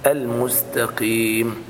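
المستقيم slow and low; correct model. Shown as a demonstration. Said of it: "أعد الخطأ فقط".

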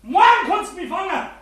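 slow, shouted challenge; defiant shout. Acted. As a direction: fling the defiance back.

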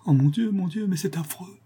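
high, horrified exclamation; horrified cry. A narrator's reading. Manon cries out at the nun's story, horrified. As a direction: cry out in horror. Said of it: "s'écria Manon".

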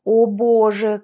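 strained grunts mid-swim; grunting while swimming. A narrator's reading. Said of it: "кряхтела Яшка".

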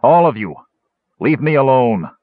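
loud order, climbing in pitch; angry dismissal. Acted. Caramon ordering everyone out, building to loud anger. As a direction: drive them away, building in force. Caramon drives his companions away.

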